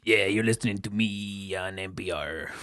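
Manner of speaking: low, soft, slow radio voice; NPR voice. Pretend. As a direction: croon it like public radio. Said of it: "That's not an N P R voice".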